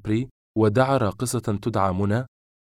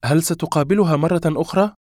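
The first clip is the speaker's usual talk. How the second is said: high, loud demanding question; upset; 8 semitones higher, 5 dB louder than usual. A narrator's reading. Woman questioning lover about a rival, upset. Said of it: "وهي تنظر نحوه بسحنة منقلبة".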